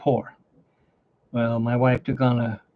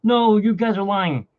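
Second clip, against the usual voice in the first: friend's disbelief; 7 semitones higher than usual. Retold or imitated. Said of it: "And he was like".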